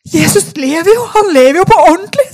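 newly saved roommate jumping up, shouting with joy; joyful shout. Retold or imitated. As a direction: shout it out like she just found Jesus. Newly saved woman rejoicing aloud.

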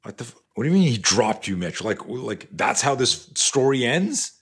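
acted incredulous questioning, pitch rising; mild disbelief. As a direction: react like a let-down coach who can't believe it. Coach reacts to story's ending.

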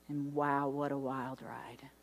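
a soft, wondering whisper; awed whisper. Real, not acted. Preacher to church, hushed in awe.

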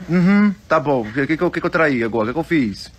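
mock-sweet, innocent little voice; cute little voice. Husband to his angry wife, in a cute little voice. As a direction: play the wronged sweetheart, all innocence. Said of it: "Com vozinha de fofo".

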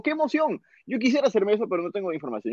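excited cousin. Retold or imitated. Cousin wanting the operation too, excited then calmer. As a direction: burst out thrilled, then calm down.

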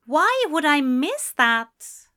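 incredulous question. Acted. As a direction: ask it slowly, quite taken aback. Character incredulous at the suggestion.

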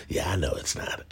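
laughing admission. Retold or imitated. Troll admits it, laughing.

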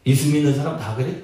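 sarcastic, dismissive question; mildly scornful, low-pitched question; sneering. Shown as a demonstration. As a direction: ask it as a jeer. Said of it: "이것은 좀 비아냥거리는 거".

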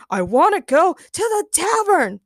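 high, insistent character yell; Ray roaring. A narrator's reading. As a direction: demand it like a tantrum. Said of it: "Ray roared".

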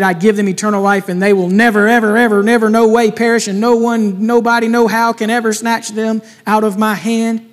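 piling up never, ever, ever with rising force; emphatic never ever. Shown as a demonstration. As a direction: hammer home that it will never happen. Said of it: "As in verse twenty-eight".

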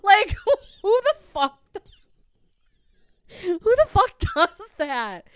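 loud, high-pitched exasperation; incredulous ranting. Real, not acted. Telling friends about her idiot sister, loudly incredulous. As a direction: rant in disbelief, pitch and volume up.

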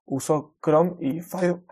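words catching in the throat, slowed; choking mid-word, forcing words out; choking on a drink. Real, not acted. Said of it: "perdón, me atragante". (atragantándose con la bebida)

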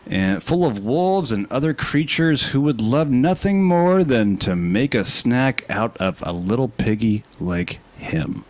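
put-on storyteller reading to kids; animated bedtime narration; bedtime story voice.

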